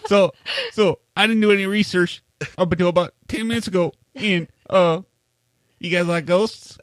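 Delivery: high, put-on Southern accent, still going; Southern drawl. Brother talking ghosts in a joking Southern accent. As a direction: keep hamming the Southern good ol' boy. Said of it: "why do I have a Southern talk all of a sudden?".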